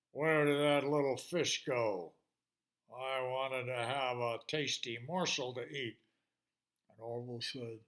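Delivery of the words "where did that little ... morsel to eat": gruff hungry shark. Acted. Shark hunts for fish.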